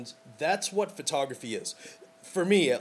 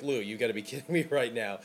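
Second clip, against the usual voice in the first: laughing disbelief; 2 semitones lower, faster than usual. Retold or imitated. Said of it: "and she's laughing".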